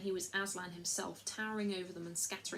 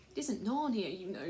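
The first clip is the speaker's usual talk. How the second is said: sobbing. Acted. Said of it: "sobbed Lucy".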